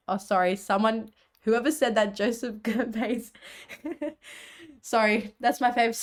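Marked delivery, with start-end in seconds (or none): 2.1-3.3 laughing. Real, not acted. Laughing at a student name.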